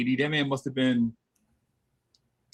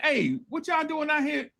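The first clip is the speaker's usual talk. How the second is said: put-on kid voice; 13 semitones higher, 3 dB quieter than usual. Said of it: "I'm like".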